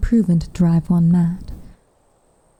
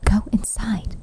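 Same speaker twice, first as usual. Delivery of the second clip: breathy hurry-along whisper, slightly higher; flustered hush; 5 semitones higher than usual. Acted. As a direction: wave her off in a hushed whisper. Caught out, hushes the girl.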